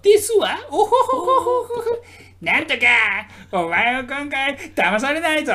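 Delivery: high, loud ojou-sama voice with laughter; mock a posh anime heiress; haughty rich girl japanese. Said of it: "キャラクターの喋り方".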